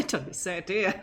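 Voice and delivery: amused mimicry broken by laughter; laughing echo. Player echoing the game character's brag, laughing. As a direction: repeat it through chuckles.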